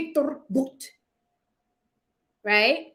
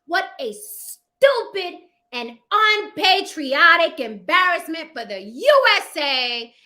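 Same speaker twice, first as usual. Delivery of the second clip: reading Trump slowly; 4 semitones higher, 5 dB louder than usual. Retold or imitated. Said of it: "this is what Trump said".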